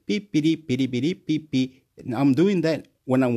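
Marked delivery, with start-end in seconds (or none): 0.1-1.8 string of quick mock beeps; imitated beeping. Vlogger acting out going out the door, silly beeping. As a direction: beep away like a silly little gadget. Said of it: "and I go".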